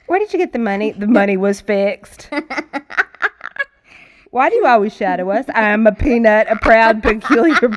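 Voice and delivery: loud, bouncy back-and-forth with laughs breaking in; playful nonsense banter. Acted. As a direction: fire off silly answers, barely holding back laughter. Rapid-fire nonsense question and answer.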